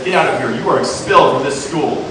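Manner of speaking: loud angry order; angry principal. Acted. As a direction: snap it out as a furious principal. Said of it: "The principal gets super angry and says".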